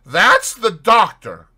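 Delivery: loud, high, drawn-out call; crying out. A narrator's reading. Landlord alerts Fetz to the doctor, crying out. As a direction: call it out urgently to the room. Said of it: "cried the landlord".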